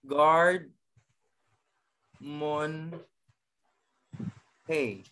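guard, mon, hey with long pauses between; very spaced-out teaching take of guard mon hey; syllable by syllable. Shown as a demonstration. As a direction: sound out guard mon hey one piece at a time. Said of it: "tinatawag nating".

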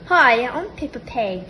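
lightly voiced British cartoon character; half-sure British kids' show imitation; Peppa Pig. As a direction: attempt a cartoon piglet introduction. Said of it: "Or I don't know how to do it".

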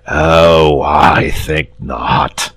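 slow, lazy dragon drawl; unbothered, taking his time; lazy dragon shrug. Acted. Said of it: "in his lazy way".

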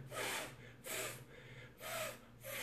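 a long voiceless F, just air through the teeth; hissed F sound. Shown as a demonstration. Teacher shows the class the F sound alone: airy voiceless F. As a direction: blow a soft F, no voice at all. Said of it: "o F é som de F".

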